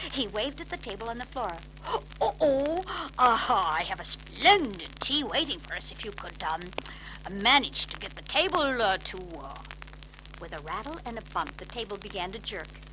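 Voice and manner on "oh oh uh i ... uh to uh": a hint of a fussy old man; dithering old uncle. Uncle Albert waving at the tea table, flustered.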